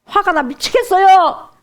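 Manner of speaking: fuming. Retold or imitated. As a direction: huff out the anger. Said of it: "씩씩씩 하면서 울어요".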